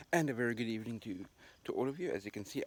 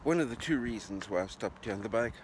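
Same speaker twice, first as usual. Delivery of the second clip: raised voice over gusting wind; shouting over wind. Real, not acted. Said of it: "Terribly sorry about the wind noise".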